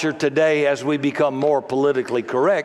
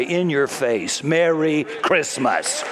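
defiant retort; slower than usual. Acted. Defiant retort to "happy holiday.

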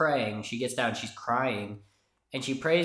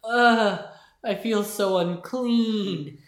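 mock disgust; 7 semitones higher, 5 dB louder, much slower than usual. Retold reaction at work.

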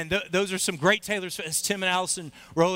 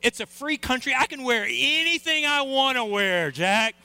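higher, defiant comeback; fed-up retort; 5 semitones higher than usual. Retold or imitated. Pastor answers heckler, defiant raised retort. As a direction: snap back, fed up with the heckling. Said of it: "I just said".

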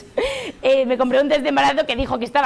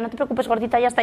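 put-on soothing a toddler. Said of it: "como consuela a una madre a una niña de tres años".

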